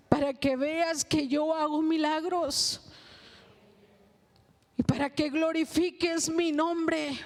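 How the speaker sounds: slow, measured divine reply; a lightly voiced God answering a prayer, slowly. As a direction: speak as the Lord, unhurried and sure. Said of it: "me dice el Señor".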